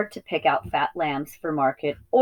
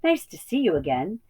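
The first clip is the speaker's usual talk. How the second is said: fond sheep voice; 2 semitones higher than usual. Acted. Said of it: "they cried".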